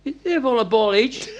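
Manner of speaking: slow line broken by laughter; laughing. Retold or imitated. Captain retelling the opponents' warm-up, laughing as he speaks. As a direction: laugh your way through the words.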